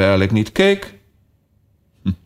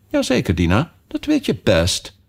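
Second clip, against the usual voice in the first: stern tone; 5 semitones higher than usual. Acted. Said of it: "op zo'n stuurse toon als ze maar kon".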